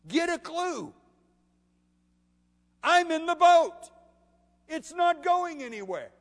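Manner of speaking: very high, loud, building exasperation; incredulous scolding. Acted. Jesus to apostles doubting the boat, incredulous scolding. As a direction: berate them in disbelief, rising to a shout.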